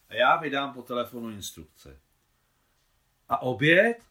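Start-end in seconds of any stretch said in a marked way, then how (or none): 3.3-4.0 high, loud, agitated outburst; excited voice. Acted. Claudine protests the lunch being abandoned, excitedly and loudly. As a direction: cry out in alarm about lunch. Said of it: "vzrušeným hlasem Claudine".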